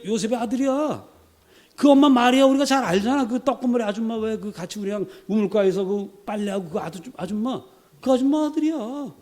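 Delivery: high, sneering gossip about his family; gossipy personal attack. Acted. Preacher voicing a crowd smearing Jesus's family, sneering and high. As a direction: run down his mother like a village gossip. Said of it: "인신공격 들어갑니다".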